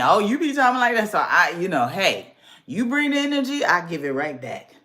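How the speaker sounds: lightly voiced slick guy; imitating men. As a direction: imitate a man with his bag of tricks. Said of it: "they sound like this to me".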